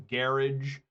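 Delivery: "garage" as British GARR-idge, stress up front; lightly imitating a Brit saying "garage" GARR-idge; mock British garage. Streamer mocking how Brits say garage, GARR-idge. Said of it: "whenever I hear a British person say".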